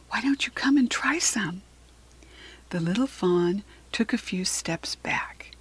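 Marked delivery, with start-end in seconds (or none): 0.1-1.6 gentle, higher, coaxing lilt; Kirsty, soft voice. A narrator's reading. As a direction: invite a shy fawn closer, softly. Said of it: "Kirsty said in a soft voice".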